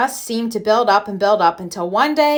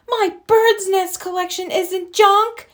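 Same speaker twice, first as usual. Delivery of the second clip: high, mock yell of a cub; hammed-up yell; 9 semitones higher than usual. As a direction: yell to save your nests, but lightly. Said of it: "yelled Brother at the top of his lungs".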